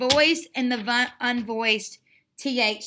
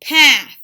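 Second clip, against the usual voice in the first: "Path" hit hard and much louder, one firm beat; pounded word; 9 dB louder than usual. Shown as a demonstration. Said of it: "Let's pound it".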